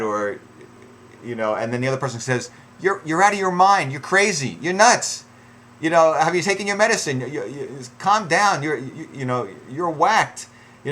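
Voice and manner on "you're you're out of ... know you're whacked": hammed-up outraged name-calling; mock angry insults. Partner insulting the other in a fight, mock angry yelling.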